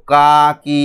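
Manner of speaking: "কা কি" as two long, separate syllables; sounding out syllables. Shown as a demonstration. Teacher shows pupils blended sounds, "কা কি" held long. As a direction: hold each vowel in "কা কি". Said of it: "এবার আমরা উচ্চারণ করব".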